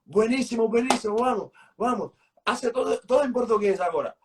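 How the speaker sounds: put-on high, hearty Spanish-accented praise, then urging him on; imitating the Mexican director. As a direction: play the director cheering the take and pushing for Portuguese. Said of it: "ele terminava e dizia".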